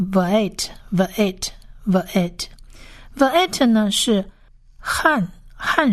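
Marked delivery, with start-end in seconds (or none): 0.1-2.5 Va'et repeated slowly as va-et; careful, spaced-out Va'et; pronunciation demo. Shown as a demonstration. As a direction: model "Va'et" for learners, pausing between repeats. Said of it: "所以这个字念".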